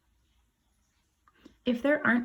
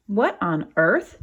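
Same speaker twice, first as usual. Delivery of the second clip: surprised; 6 dB louder than usual. Acted. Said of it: "Daddy said".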